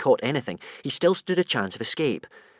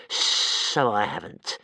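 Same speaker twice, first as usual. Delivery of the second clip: slow deflated monster voice; a touch of letdown; disappointed creature; 3 semitones lower, much slower than usual. Acted. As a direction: let it sink in sadly. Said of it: "very disappointed".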